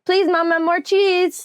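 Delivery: put-on high sweet toddler plea; baby voice. Shown as a demonstration. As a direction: ask like a tiny child.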